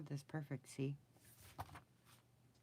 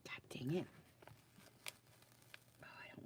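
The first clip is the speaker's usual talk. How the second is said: whispered, fretting curse; soft real whisper while fixing a mistake; frustrated whisper; 10 dB quieter than usual. Real, not acted. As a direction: say it under your breath, worried.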